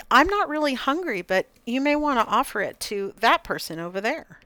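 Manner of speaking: gracious, relaxed no with thanks; polite calm refusal. Shown as a demonstration. Coach demonstrating saying no to a pushy offer, calm and gracious. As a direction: decline kindly but steadily, tone kept calm. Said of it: "keeping our tone of voice calm and relaxed".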